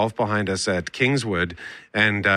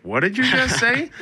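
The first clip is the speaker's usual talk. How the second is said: high incredulous squeak; mock disbelief, pitched high; baffled what; 11 semitones higher than usual. Quoting their confused reaction.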